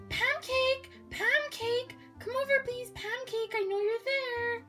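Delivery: high-pitched hollering call; calling over fence. Acted. Girl calls next door for help, hollering. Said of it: "I'll call over the fence".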